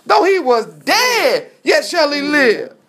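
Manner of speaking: booming preacher's proclamation, high and loud; proclaiming loudly. Acted. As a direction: declare it like the voice of God. Jesus proclaiming to Mary.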